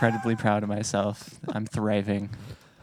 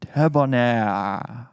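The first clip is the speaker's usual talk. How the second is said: slow breathy drawl; much slower than usual. Acted. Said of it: "I like the breath at the very beginning".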